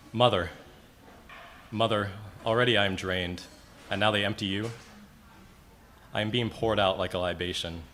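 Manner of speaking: solemn verse, opening words firmly stressed; elegy recitation. Acted. Poet mourning a great-great-aunt, solemn recitation. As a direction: call out each address, then pause.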